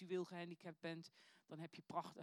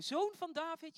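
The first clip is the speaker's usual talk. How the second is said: luide smekende roep; schreeuwend; 10 semitones higher, 10 dB louder than usual. A narrator's reading. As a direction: roep het hoog en luid uit. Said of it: "begon hij te schreeuwen". (luid schreeuwend om hulp)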